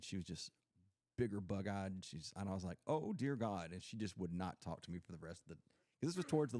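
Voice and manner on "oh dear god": higher-pitched retold "oh dear God"; mock dismay. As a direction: play up your dismay as you retell it. Acts out own alarmed reaction.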